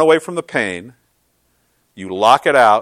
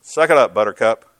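gruff Marine; 4 dB louder than usual. Retold or imitated. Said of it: "looked at me with compassion and tenderness and said".

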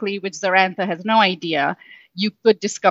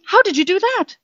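much higher, stunned voice; boy astonished at Ria's trick, much higher; amazed question; 12 semitones higher than usual. Acted. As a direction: ask it in pure disbelief. Zarantha amazed.

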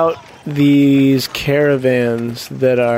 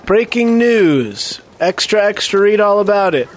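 put-on rapid old-time reporter; 7 semitones higher than usual. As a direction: shout the headlines like a newsboy. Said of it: "And I say".

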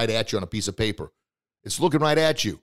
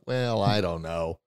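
slow, lower, unsure; hesitant doubter; 4 semitones lower, slower than usual. Retold or imitated. Speaker imitating a hesitant friend, slow and unsure. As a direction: drag it out, unconvinced. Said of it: "somebody else who's probably going".

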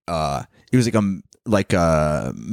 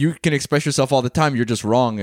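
imitating Persian mom; 3 semitones higher than usual. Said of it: "the Persian mom thing".

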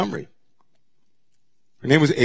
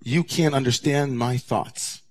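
God silencing Moses; much slower than usual. Retold or imitated. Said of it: "That God says".

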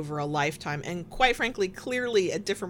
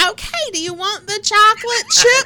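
high, louder, laughing through it; laughing old person voice; 10 dB louder than usual. Retold or imitated. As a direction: laugh while asking like a doddering elder. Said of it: "It's like".

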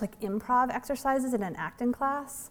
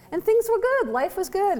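ironic cheer; 11 semitones higher, 4 dB louder than usual. Real, not acted. Ironic cheer before dark turn.

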